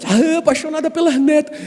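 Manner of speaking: high, sing-song doting voice; doting grandma. Retold or imitated. Pastor imitating his wife doting on her granddaughters, high and gushing. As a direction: gush over the granddaughters.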